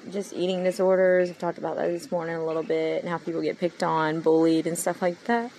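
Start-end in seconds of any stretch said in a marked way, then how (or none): 4.2-5.5 talking through a yawn; words stretched by a yawn. Real, not acted. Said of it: "I'm yawning".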